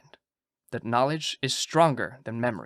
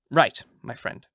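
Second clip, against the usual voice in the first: put-on Dutch accent; slower than usual. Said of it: "my Dutch accent".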